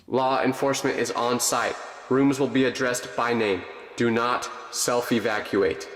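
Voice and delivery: soft, measured official announcement; distant PA voice, slowing at the end. Acted. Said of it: "when the P A clicks again".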